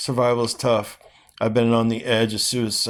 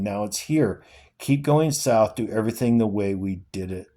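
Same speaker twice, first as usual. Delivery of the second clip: steady, earnest reading of a novel; dramatic novel reading; story reading. Acted. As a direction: read the father and son scene aloud with feeling. Reading The Road aloud.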